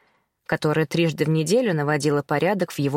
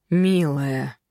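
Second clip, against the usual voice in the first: gentle. A narrator's reading. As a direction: gently try to calm her. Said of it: "попытался мягко остановить".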